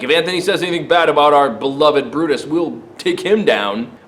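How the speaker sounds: fast mob threat that slows on the last words; a hint of a tough crowd warning; threatening mob. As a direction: citizens warn Antony off, lightly voiced menace. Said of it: "And they're like".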